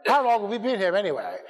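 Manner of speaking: mock crisp English voice; crisp English accent. Preacher voicing the chimpanzee for laughs, mock English accent. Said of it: "speaking in a crisp English accent".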